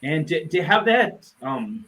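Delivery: fighting tears, struggling to get the words out; choked up. Real, not acted. Grieving friend recalling the last visit, choked up. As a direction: voice catching, long pauses to hold back tears.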